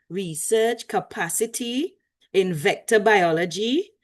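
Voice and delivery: a light, hammed-up Trinidadian accent; bad Trini accent. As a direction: try a playful Trini lilt while reading the intro. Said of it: "That was my best bad Trini accent".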